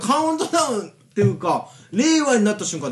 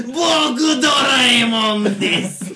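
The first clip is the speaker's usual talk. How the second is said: Doraemon voice; 2 semitones higher, much slower than usual. Acted.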